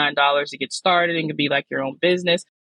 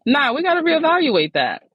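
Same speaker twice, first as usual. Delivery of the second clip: emphatic dismissal; 12 semitones higher, 3 dB louder than usual. Real, not acted. Dismissing own reason emphatically.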